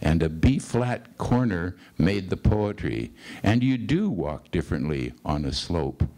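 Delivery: literary recital, phrases falling away; poetry reading. Acted. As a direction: bring the poem to a measured close. Reads the poem's ending.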